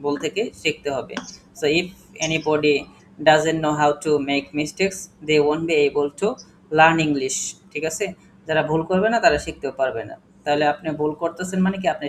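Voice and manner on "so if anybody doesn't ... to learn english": emphatic teaching. Shown as a demonstration. Teacher stresses point to class.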